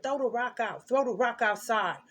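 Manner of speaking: building from firm to a loud, slowed roar; a voice in his head urging him, rising to a demented roar; demented dark command. Retold or imitated. Possessed voice ordering the boy to throw the rock, building to a dark shout. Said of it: "Real demented, dark".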